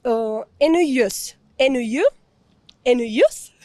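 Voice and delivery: "ennuyeuse" and "ennuyeux" drilled slowly and carefully; careful pronunciation. Shown as a demonstration. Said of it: "C'est vraiment très bien".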